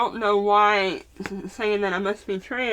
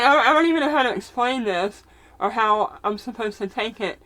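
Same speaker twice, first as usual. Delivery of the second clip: fighting back tears; choked up; 2 semitones higher, 4 dB louder than usual. Real, not acted. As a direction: voice catching, near tears. Upset over a rude comment.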